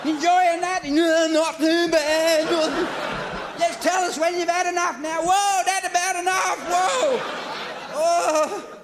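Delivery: high, bright, laughing; jolly along a patient; cheery doctor. Retold or imitated.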